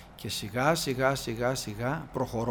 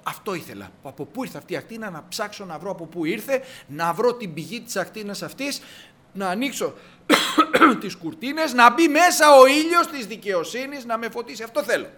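mildly excited, rising higher and louder toward the end; eager seeker; 6 semitones higher, 7 dB louder than usual. Acted. Seeker who wants the sun to come in, growing eager. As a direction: build from pondering to eager wanting. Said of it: "Και να πει".

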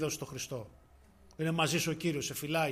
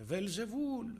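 imitated calling out; 6 semitones higher, much slower than usual. Father crying out from the balcony, imitated calling out. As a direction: call out the name without real volume. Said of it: "έβγαινε στο μπαλκόνι και φώναζε".

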